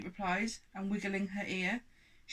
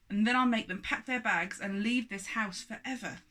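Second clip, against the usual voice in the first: angry giant; 4 dB louder than usual. Acted. Angry giant threatens culprits.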